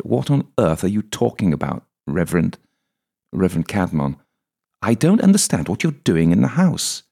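high, rising suspicious woman's voice; lightly voiced Julia demanding answers; puzzled woman. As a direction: press him, baffled and wary. Julia questions the reverend.

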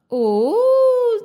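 high, loud cry of oh; surprised oh. A narrator's reading. Storyteller gasps as the aunties appear. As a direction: burst out with a sudden oh. Narrator exclaims.

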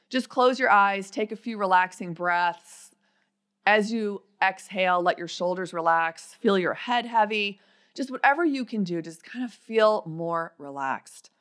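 slow, calm meditation voice; guided meditation. Acted. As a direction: guide them to relax, slowly. Leads a short visualization.

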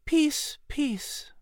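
softly, almost to himself; hushed. A narrator's reading. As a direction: Patrick alone, hushed and troubled. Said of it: "said in a hushed tone".

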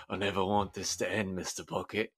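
soft sleepy mumble; mumbled. Acted. Lockhart talking in his sleep to the bucket-head guy, mumbling softly. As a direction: murmur it half asleep. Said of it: "he mumbles to him".

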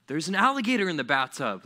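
loud mock alarm; hammed-up warning; kid's absurd excuse. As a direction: blurt a silly excuse as if alarmed. Child inventing excuse.

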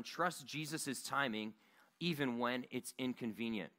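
slow dictation. Shown as a demonstration. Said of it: "you can go ahead and write this down".

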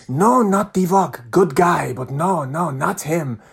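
put-on emphatic Nigerian-accented denial; drawn-out Nigerian-accented no; imitated Nigerian fan. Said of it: "you know, African lad".

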